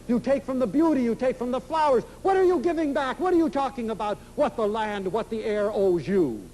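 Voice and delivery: high, heated retelling of a tirade; indignant outburst. Retold or imitated. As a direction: fire the questions at her in mock fury. Counselor's outburst at self-absorbed girl.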